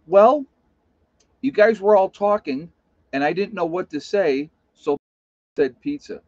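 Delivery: ditzy and sincere; airheaded wife. Retold or imitated. Wife explaining to the family, high and ditzy. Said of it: "She goes".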